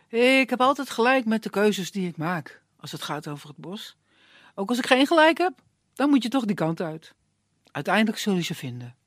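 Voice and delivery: put-on unhurried, kindly old man; calm old woodsman. Old woodsman calming the young man, lightly voiced. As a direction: soothe the hothead, take your time.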